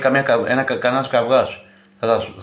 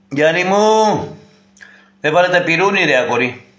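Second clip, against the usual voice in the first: calling out; 4 semitones higher, 4 dB louder than usual. Real, not acted. Calling out to someone at table.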